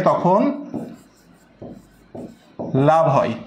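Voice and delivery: slow, with long pauses between phrases; slow dictation. Real, not acted. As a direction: dictate it piece by piece for note-takers. Teacher dictates a note to write. (ধীরে ধীরে, থেমে থেমে লিখিয়ে দেওয়া)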